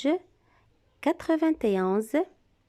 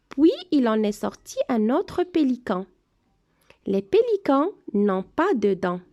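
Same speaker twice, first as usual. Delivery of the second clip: reading aloud to class; 5 dB louder than usual. Shown as a demonstration. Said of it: "Je vais relire le texte une deuxième fois".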